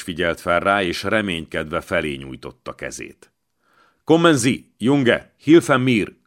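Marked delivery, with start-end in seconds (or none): 4.0-6.2 higher, louder plea in German; rémült segélykérés. A narrator's reading. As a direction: call out for help in mild alarm. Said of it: "idegen nyelven rémülten vartyogott". (ijedt, hangos könyörgés németül)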